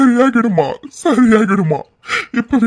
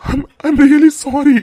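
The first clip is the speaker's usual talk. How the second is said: slow, hesitant, higher apology; 4 semitones higher, much slower than usual. Acted. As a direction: apologize slowly, meaning it. Apologizing to family.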